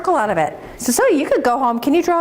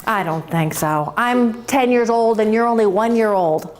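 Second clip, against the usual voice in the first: low bull voice turning down a friend; lightly voiced big bull; grumpy bull; 3 semitones lower than usual. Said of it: "And the bull says".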